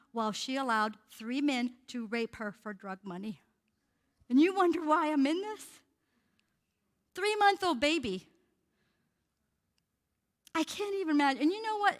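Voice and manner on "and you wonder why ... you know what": raised indignation. Real, not acted. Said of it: "preacher's indignation at the abuse".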